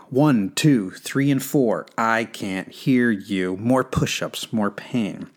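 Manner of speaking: retry the drill instructor, drag out the end; mock drill sergeant, restrained not screaming; drill instructor count. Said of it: "Let me try again".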